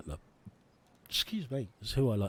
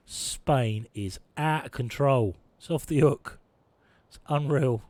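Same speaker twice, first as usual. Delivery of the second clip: louder, slow alarmed burst; alarmed exclaim; 3 semitones higher, 6 dB louder, slower than usual. Real, not acted. Gamer seeing a province revolt, alarmed outburst. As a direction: sound the alarm.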